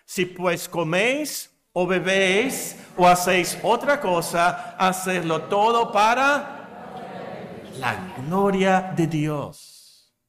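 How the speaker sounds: recited aloud. Shown as a demonstration. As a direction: recite it out loud with the congregation. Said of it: "quiero que me lo completen en voz alta". (versículo recitado en voz alta, lento)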